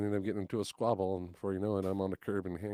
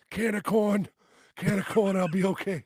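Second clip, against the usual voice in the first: mock brave boast; 11 semitones higher, 8 dB louder than usual. Friend's pretend voice, loud.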